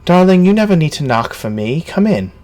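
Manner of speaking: distant modulated spectral woman; metallic voice filter. Acted. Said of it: "you hear in a tinny voice, uh, or kind of this, uh, echoey, modulated".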